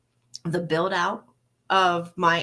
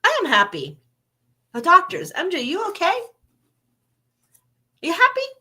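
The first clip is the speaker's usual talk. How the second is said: defensive high protest; 10 semitones higher, 5 dB louder, faster than usual. Retold or imitated. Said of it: "And I'm like".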